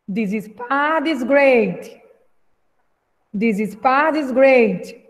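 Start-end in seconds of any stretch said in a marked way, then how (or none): 0.1-2.0 slow, careful read for repeating; slow model reading. Shown as a demonstration. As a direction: model the line slowly for the class. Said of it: "vamos repetir aí a fala do Yuri".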